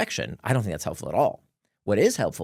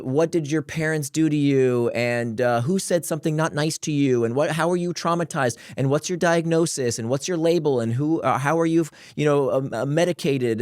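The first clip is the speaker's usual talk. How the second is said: mocking therapy questions; 5 semitones higher, 3 dB louder than usual.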